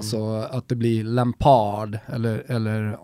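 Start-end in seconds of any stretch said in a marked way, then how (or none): 1.0-2.0 Lampard utdraget med brittisk brytning; säg Lampard som en britt; dialektalt brittiskt uttal. Shown as a demonstration. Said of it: "det dialektala". (brittiskt dialektalt Lampard)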